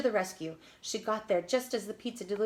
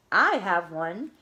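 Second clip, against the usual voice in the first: generous call; 8 dB louder, slower than usual. A narrator's reading. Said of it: "call out generously".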